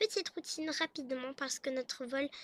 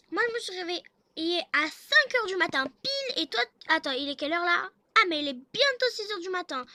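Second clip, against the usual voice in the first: loud, high, indignant telling-off; scolding wife; 4 semitones higher, 8 dB louder than usual. Acted. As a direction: lay into a lazy husband, voice raised. Wife scolds reluctant husband. (épouse qui gronde, voix forte et aiguë)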